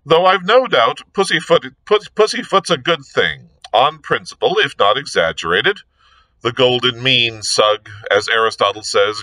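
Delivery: lightly voiced chatty aristocrat, musing; a touch of whimsical gentlemanly banter; breezy Lord Peter. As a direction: ramble on airily to needle the inspector.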